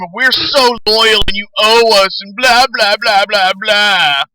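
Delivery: mock him, then brush it off; mocking whiny gamer. Mocking the fan's demands, mild whiny mock fading out. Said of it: "this is the kind of shit that he says".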